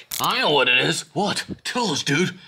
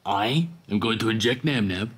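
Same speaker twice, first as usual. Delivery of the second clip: deliberate, spelled-out explanation, a bit low; saying it slowly; 4 semitones lower, 5 dB quieter than usual. Acted. Villain repeats his plan for confused listeners, slowly. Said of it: "I'll say it slowly".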